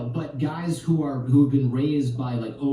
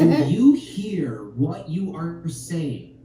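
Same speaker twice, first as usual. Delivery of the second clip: laughing disbelief; 4 semitones higher, much slower than usual. Retold or imitated. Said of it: "And I was like".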